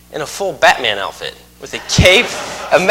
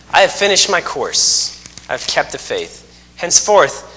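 scripture reading. Acted. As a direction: read the verses out with gravity. Reads scripture passage.

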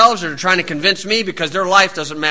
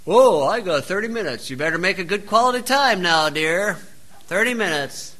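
quiet, offhand mock of a busy suitor; a hint of a clock-watching date; mock suitor on a schedule; 7 dB quieter than usual. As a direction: lightly play a man checking his watch. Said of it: "whip out your watch and say".

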